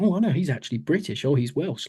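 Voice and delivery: mildly surprised, pitch lifted then easing; surprised realisation. Retold or imitated. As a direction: re-enact a pleasant little discovery. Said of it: "I was surprised going".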